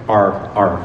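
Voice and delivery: a stretched, growling American R on its own; R sound. Shown as a demonstration. Demonstrating the American R sound alone, drawn out. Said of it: "if we say".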